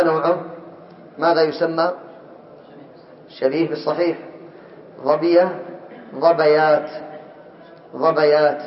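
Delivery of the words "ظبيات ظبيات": ظبيات said ẓabayāt, with an open a on the b; fatha on the b. Shown as a demonstration. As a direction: spell out ظبيات slowly, ẓabayāt. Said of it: "لماذا فتحت".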